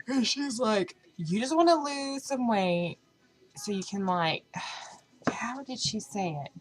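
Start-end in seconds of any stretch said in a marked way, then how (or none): 1.2-4.4 imitating mom. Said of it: "the way she said it".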